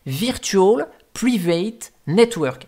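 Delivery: English words said with a heavy French accent, a bit slow; self-mocking French accent on English. Shown as a demonstration. Telling viewers what VPN stands for, French-accented English. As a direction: joke about your own bad English accent while spelling out the acronym. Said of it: "avec mon superbe accent anglais".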